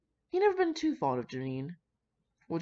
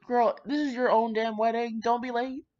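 put-on louder, higher sassy girlfriend voice; sassy friend aside; 6 semitones higher, 5 dB louder than usual. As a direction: tease the bride like her bestie. Talking to the bride in story.

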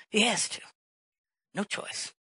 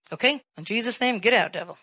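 commanding; 3 semitones higher, 6 dB louder than usual. Retold or imitated. Casting out demon.

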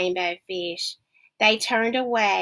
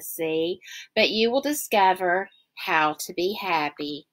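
lower, deeper wise octopus voice; 4 semitones lower than usual. Acted. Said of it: "said the octopus".

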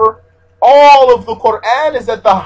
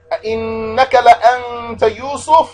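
astonished emphasis; 3 semitones higher, much faster than usual. Acted. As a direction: stretch the vowels as an amazed question. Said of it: "So they said".

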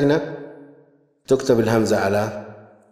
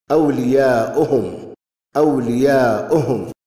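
slow, stretched vowels; measured dictation of a word; slow sounding out. Shown as a demonstration. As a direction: repeat أولياؤهم slowly for a learner. Sounding out the written example word.

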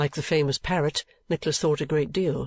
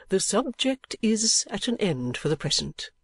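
put-on higher-pitched old gentleman, closing the matter; kindly old gentleman, composing himself; 7 semitones higher than usual. Old gentleman ending the subject with Nickleby, composing himself. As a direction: close the subject as an agitated old man.

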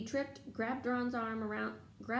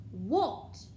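startled; 5 dB louder than usual. Acted. Harry startled by Neville.

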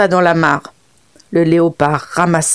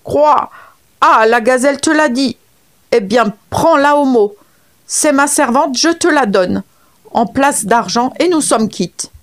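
higher, sharp frog scolding back; angry frog; 5 semitones higher than usual. Acted. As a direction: snap back at the leopard. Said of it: "La grenouille se fâcha à son tour". (grenouille fâchée, voix aiguë)

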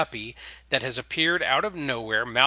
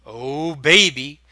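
slow, loud, hammy come-on; lewd vampire; 2 semitones higher, 8 dB louder, slower than usual. A narrator's reading. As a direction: stretch it out like a cheesy seducer. Vampire wiggling brows lewdly.

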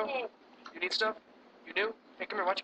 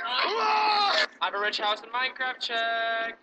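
fake crying; 4 semitones higher, slower than usual. Clip character wailing his boast.

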